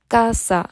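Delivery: casa with the stress on ca; stress on first syllable. Shown as a demonstration. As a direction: say casa slowly, leaning on ca. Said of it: "뒤에서 두 번째 강세를 줍니다". (casa 첫 음절 ca에 강세)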